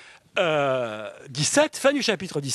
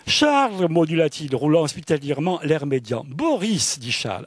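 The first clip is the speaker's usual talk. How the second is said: raised, animated reading of the novel's scene; reading a passage aloud; 2 semitones higher, 4 dB louder than usual. Acted. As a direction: savour every word of the sentence. Reads the Charles and Boris excerpt. (lecture animée d'un passage de roman)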